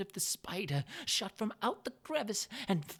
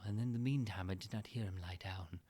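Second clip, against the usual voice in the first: whisper; 8 semitones lower, 5 dB quieter than usual. A narrator's reading. Narrator holding breath in the dark.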